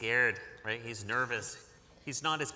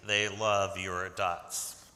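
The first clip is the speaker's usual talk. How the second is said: calling out; 6 semitones lower, 6 dB louder, much slower than usual. Real, not acted. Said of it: "shouting to the girl".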